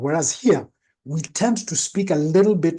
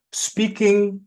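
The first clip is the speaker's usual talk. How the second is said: spoken up; 5 semitones higher than usual. Shown as a demonstration. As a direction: lift "speaking" up, projected. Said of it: "generally speaking up".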